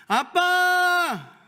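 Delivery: long, drawn-out, high, loud call of 아빠; crying out to Dad. Shown as a demonstration. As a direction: stretch the cry to Father. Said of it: "부르면은요".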